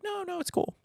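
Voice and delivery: mock reassurance. Friends reassure, obviously annoyed.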